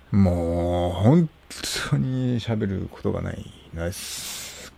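whisper. Real, not acted. Admits he has nothing to say.

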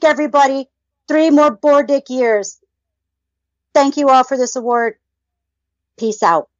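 mock award speech in a lightly formal voice; acceptance speech. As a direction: deliver a cheeky thank-you speech, ceremonious. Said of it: "Let's hear your acceptance speech".

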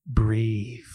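a hushed, hammed-up one-word command; a mock-intense "Breathe" right in his face; Nick Cage movie intensity. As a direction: play it like an overwrought thriller hero. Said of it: "That's some Nick Cage National Treasure stuff".

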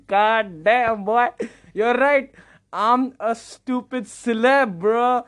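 hammed-up cocky celebrity; self-mocking big-shot brag; mock swagger. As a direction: puff yourself up like a star, drawing out the words. Acting puffed-up after lavish praise.

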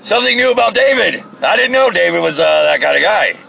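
high, loud, teasing camp voice; flirty mock voice. Mocking a stranger's beer text in a high flirty voice. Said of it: "I'm like".

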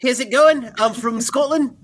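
comically bad Scottish accent that slips into Kiwi; Kiwi-tinged Scottish accent demo; attempted Scottish accent. Shown as a demonstration. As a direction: try Scottish and land in New Zealand. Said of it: "how's your Scottish".

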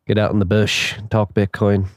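badly faked Australian accent; hammed-up amateur Australian twang; terrible Australian accent. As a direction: have a clumsy go at an Aussie accent. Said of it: "Is that a good Australian accent?".

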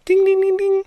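high sing-song ding ding; game show ding. Acted. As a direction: chime it like a quiz show bell. Marking the right answer like a game show.

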